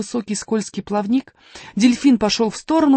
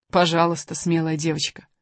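low calm creature voice; dolphin voice; 3 semitones lower than usual. Acted. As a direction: answer gently as a dolphin. Dolphin replies calmly. (спокойный голос дельфина)

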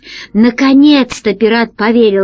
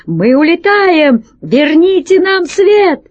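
high, slow, louder desperate cry; panicked pleading; 9 semitones higher, 3 dB louder, slower than usual. Acted. Rat captain begging the council for light, high desperate cry.

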